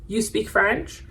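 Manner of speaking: "You speak French?" with the pitch rising on "French"; questioning intonation. Shown as a demonstration. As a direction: turn the statement into a question by lifting "French". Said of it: "that change at the end of the sentence".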